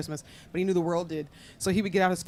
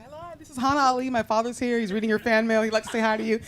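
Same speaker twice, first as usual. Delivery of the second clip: higher-pitched polite caller voice; lightly acted telephone introduction; phone greeting; 5 semitones higher than usual. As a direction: re-enact a cheery call to a stranger. Voicing her own call to fans.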